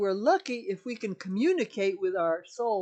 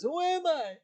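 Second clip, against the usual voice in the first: higher, a touch louder, lost and questioning; searching man's voice; 11 semitones higher, 4 dB louder than usual. Retold or imitated. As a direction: ask it like a lost soul. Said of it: "The guy says".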